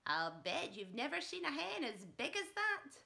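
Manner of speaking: put-on loud cackling old grandma voice calling down; Grandma shouting. Grandma on the rooftop yells down at Mary, loud old-woman shout. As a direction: holler it down from the roof like a wild old granny. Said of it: "Grandma shouted".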